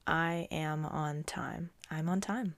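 slow whispered self-affirmation; softly whispered mantra. Shown as a demonstration. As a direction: whisper it to yourself slowly. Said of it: "Say it to yourself right now".

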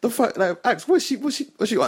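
high, rushed, exasperated questions; retold annoyance. Asking Axe what she is on, retold annoyance. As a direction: replay rising irritation, appealing to your friend. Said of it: "I'm about to get mad".

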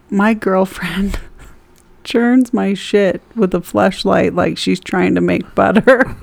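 reading through giggles; can barely get the words out for laughing; cracking up mid-sentence while reading aloud. Real, not acted. Reading a raunchy comment aloud.

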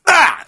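high startled "ah"; sudden high cry; startled yelp. Retold or imitated. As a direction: yelp as the seat gives way. Sinking into a spongeless couch.

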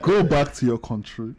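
laughing. Retold or imitated. Mocking the judge's ruling.

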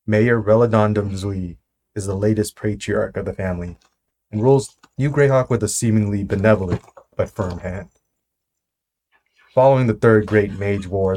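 measured intro read; story narration. Acted. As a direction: read it like a scene setting. Reads campaign intro.

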